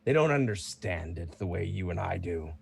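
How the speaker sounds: lightly voiced proud fighter, mostly in own voice; a hint of a seasoned champion; casual veteran fighter answering; Bruno the champion. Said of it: "He goes".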